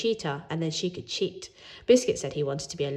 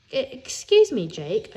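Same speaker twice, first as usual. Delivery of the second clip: nervous squeak, high and stammered; 3 semitones higher, 5 dB louder, slower than usual. Acted. Timid boy asking the team leader, high nervous squeak. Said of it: "I squeaked".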